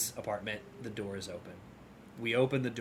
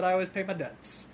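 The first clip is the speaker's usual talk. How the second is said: mocking requote; 7 semitones higher than usual. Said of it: "That was a weird thing to say".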